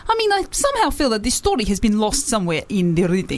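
shaky attempt at a Russian accent. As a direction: read on in an approximate Russian accent. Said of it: "just a Russian at the end".

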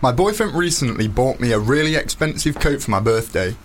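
reading aloud in a Nottingham accent. Real, not acted. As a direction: read the letter in broad Nottingham. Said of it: "in his very sexy Nottingham accent".

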